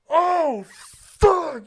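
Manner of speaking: high-pitched imitation of a punched man; hammed-up reaction to getting hit; mock pained cry. Punched man cries out on floor.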